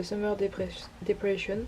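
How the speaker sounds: slow, careful English song title in a French accent. Real, not acted. Vlogger reads the English song title in her English accent. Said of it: "Mon accent anglais".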